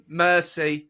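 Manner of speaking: "Mercy" said as the plain English word; accent-free French, imitated. Imitating Grace refusing the accent in Paris, anglicised. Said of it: "Grace refuses".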